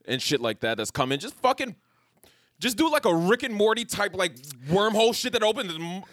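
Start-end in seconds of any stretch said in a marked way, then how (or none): 1.2-6.0 pitching a wild idea, cracking up; rising excitement with a laugh; excited. Real, not acted. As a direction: pitch shooting up, getting hyped.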